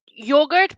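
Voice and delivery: the second "yogurt" begun with a j sound, as in joke; altered pronunciation. Shown as a demonstration. Puzzled over an odd pronunciation heard a lot, "yogurt" said jogurt. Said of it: "pronounced as yogurt".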